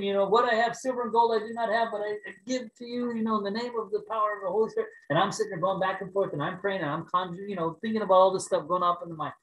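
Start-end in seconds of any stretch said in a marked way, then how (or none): 0.0-4.9 bold apostle prayer. Pretend. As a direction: proclaim it like Peter in Acts. Imagined apostle-style healing prayer.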